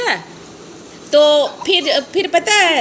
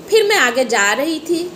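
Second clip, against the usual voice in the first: drawn-out storytelling; 3 semitones lower, slower than usual. Acted. Stretching out the walk in the story.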